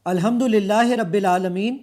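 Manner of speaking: slow, clear recitation into the device's microphone; spoken into voice search. Shown as a demonstration. Host speaking a phrase into the Quran device to demo its search, slowly and clearly. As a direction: recite الحمدللہ رب العالمین slowly and carefully so the machine catches every word. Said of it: "آپ کے بولنے پر کیا کرتا ہے".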